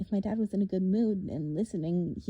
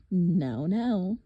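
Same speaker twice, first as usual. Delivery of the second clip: warning; 6 dB louder than usual. Acted. Monster silencing the angry boy, warning. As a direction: cut him off with a warning. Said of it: "Doctor Thorne warned".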